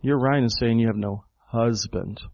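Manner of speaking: "husband" set apart after a short pause; stress on HUSBAND. Shown as a demonstration. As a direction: hold back, then land pointedly on "husband". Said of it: "The Greek emphasizes the word husband".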